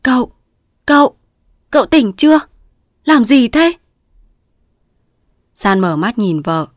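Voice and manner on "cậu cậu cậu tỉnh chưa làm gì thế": high, loud anxious calling of his name; alarmed calling. A narrator's reading. Wife trying to rouse her delirious husband, alarmed. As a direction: shake him awake with your voice. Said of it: "chạy lại đỡ gọi".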